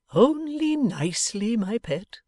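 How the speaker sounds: doting Pa answering his daughter; fond father. Acted. Pa answers Bella.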